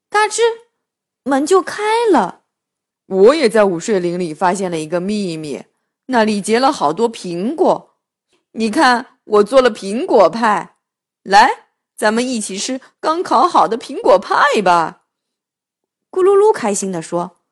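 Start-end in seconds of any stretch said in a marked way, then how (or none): 3.1-15.0 deep character voice. Acted. Gululu character voice.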